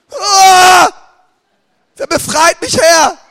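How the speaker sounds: high, loud hammed-up wail; mock desperate cry. Sugar addict crying to the Lord, mock wail. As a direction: cry out for rescue, overplayed. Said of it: "Zuckerabhängig".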